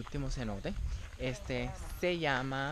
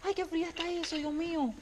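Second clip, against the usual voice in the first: in ice cold water; 4 dB louder than usual. Real, not acted.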